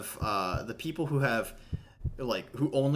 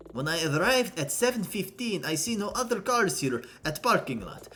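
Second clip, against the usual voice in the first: emphatic, hammed-up Russian accent; Russian accent with punched, deliberate words; 6 semitones higher than usual. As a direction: give testimony in an amateur Russian accent. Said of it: "I can't do a Russian accent".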